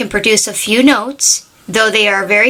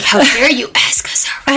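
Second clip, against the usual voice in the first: retold indignation, pitched up; mock outrage; 4 semitones higher than usual. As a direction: act mildly affronted on someone's behalf. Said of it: "they get mad and they freak out".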